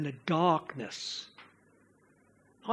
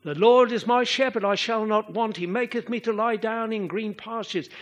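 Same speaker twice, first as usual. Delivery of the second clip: "The Lord is my shepherd" higher and louder, running straight on; light psalm rhythm; 4 semitones higher, 3 dB louder than usual. Shown as a demonstration. Preacher shows the lightness of the psalm's opening, lifted flowing recital. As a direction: recite through "green pastures" in one lifted, flowing run. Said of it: "there's a lightness to it".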